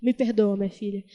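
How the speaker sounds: put-on a touch of a weeping old father begging forgiveness; tearful father. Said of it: "Chorando, chorando".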